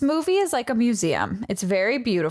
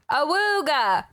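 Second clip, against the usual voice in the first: ahooga horn; 6 semitones higher than usual. Acted. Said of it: "can we get another read of".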